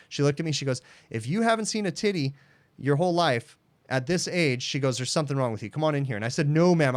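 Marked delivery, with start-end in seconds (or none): 1.1-6.1 put-on higher teasing older lady; lady teasing the shy technician, higher and blunt. Lady voiced teasing the repairman. 6.5-6.9 higher, louder firm refusal; firm flustered no. Retold or imitated. Embarrassed refusal retold.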